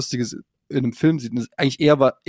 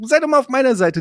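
pleading; 11 semitones higher, 3 dB louder than usual. Retold or imitated. His inner plea to his wife.

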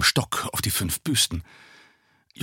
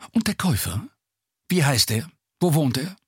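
higher, clipped orders; commanding tone; 5 semitones higher than usual. A narrator's reading. Stranger demands the buyer's name, commanding. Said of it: "Der Mann sprach im Befehlston".

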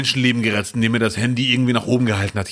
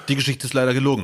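dry; faster than usual. Retold or imitated. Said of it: "Aber dann ganz trocken".

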